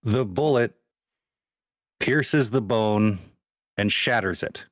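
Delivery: measured narration with suspenseful pauses; game master's scene setting. Acted. Game master revealing the Phoenix's weapon to players, measured and suspenseful. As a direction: dole it out phrase by phrase.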